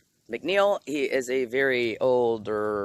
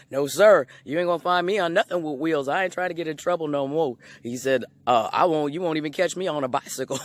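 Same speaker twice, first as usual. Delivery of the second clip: put-on eager old man promise; 5 semitones higher, 5 dB louder than usual.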